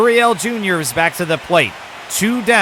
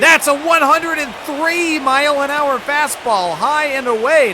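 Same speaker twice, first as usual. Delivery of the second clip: excited call; 11 semitones higher, 3 dB louder than usual. Real, not acted. 103 mph fastball on strikeout pitch.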